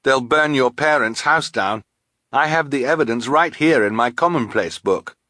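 high, loud, pleading warning; urgent boy. Acted. Quigley with his notebook to Carmelita, urgent. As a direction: press your evidence on her.

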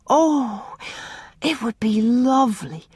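high, joyful exclamation; child crying out with joy; delighted cry. A narrator's reading. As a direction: burst with happiness. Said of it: "cried Una".

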